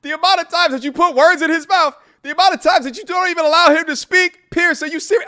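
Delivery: high, loud, hammed-up British accent; terrible British accent. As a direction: protest in a bad mock-British voice. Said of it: "That was a terrible accent".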